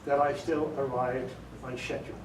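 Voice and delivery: measured British English with pauses before key words; British accent. Shown as a demonstration. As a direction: show off British English, leading up to "schedule" said with a "sh". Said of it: "like a British would say it".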